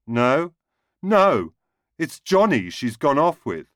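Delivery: a deserted husband crying down the phone; blubbering, rising to a wail. A narrator's reading. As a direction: voice climbs high and loud in distress. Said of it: "Jerry blubbed on".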